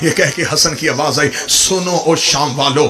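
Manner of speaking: low, steady proclamation of lineage; solemn declaration. Acted. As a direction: announce each line with gravity. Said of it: "میرے مولا حسن نے کہا". (سنجیدہ اعلان)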